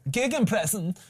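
Gegenpressing in a hammed-up German accent. Shown as a demonstration. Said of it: "Say it in a German accent, go on".

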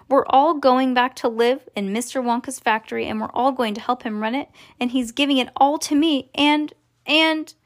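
mildly breathless-with-news excitement; excited cry. Acted. Charlie tells mother about the factory, mildly excited. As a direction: pour out the news, lifting toward the end. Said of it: "cried Charlie".

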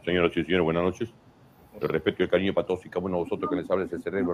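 mock-grand orator's address, measured and formal; brain's formal speech. The brain presents itself to the other organs, lightly pompous and formal. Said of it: "se presenta de esta forma".

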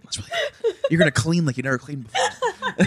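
laughing through the words. Real, not acted. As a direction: talk while cracking up. Laughing while joking about meth.

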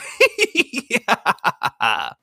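long, high evil cackle; hammed-up high maniacal laugh; villain laugh. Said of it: "There's my two".

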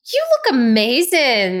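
gasp, then praise her slowly; amazed. Real, not acted.

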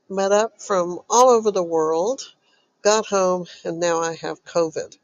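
blocked nose from a cold; stuffy nose. Real, not acted. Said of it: "if I sound, uh, a little stuffy".

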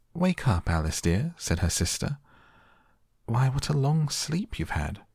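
high, lilting wake-up call; fond sister rousing Alice; gentle waking call. A narrator's reading. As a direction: coax a sleeper awake in a high voice. Sister wakes sleeping Alice.

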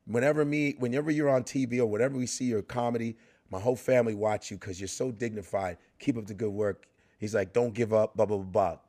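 lightly voiced athlete, low and soft; James Worthy. Athlete praising the comic's dignity, low soft voice. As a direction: drop low and soft for quiet, sincere praise. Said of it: "He goes".

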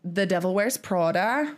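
"Prada" in a put-on weird accent; odd-accented Prada. Real, not acted. Host announcing the title, "Prada" in a weird accent. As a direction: say "Prada" with an affected accent, lifting at the end. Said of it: "need to say Prada that way".

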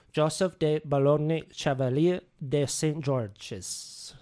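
careful, slow French-accented "Chevalier de Saint George's"; attempted French accent. Shown as a demonstration. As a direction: try hard to sound French on the full name. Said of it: "rate that French accent".

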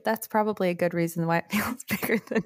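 whispery lisping laugh; speaking around a swollen tongue. Real, not acted. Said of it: "I feel like I'm talking weird".

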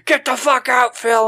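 hammed-up angry mom throwing Phil out; mock furious mom. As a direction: Susan mock screaming at Phil. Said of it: "Susan yelling again".

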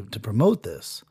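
breathless whisper, slowed down; whispered humility. Acted. Telling the overlord he is unworthy, in a whisper. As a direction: barely voice it, humbled.

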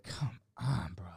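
soft, voiceless plea; acted hushed exasperation; whispered exasperation. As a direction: whisper it in mock disbelief. Acted exasperated aside to the comic.

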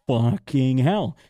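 drawn-out, slow swearing; retold exasperation. Traveler told he can't fly, slow exasperated curse. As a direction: stretch each word out in mock despair. Retold despair at being refused.

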